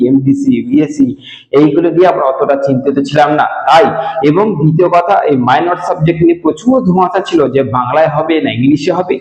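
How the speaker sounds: ordinary talk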